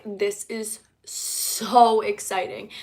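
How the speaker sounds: slow, drawn-out "so exciting"; excited reaction. Shown as a demonstration. Reacting to someone coming out to her, slow showy excitement. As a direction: stretch the "so" in supportive excitement. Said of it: "give them the reaction of".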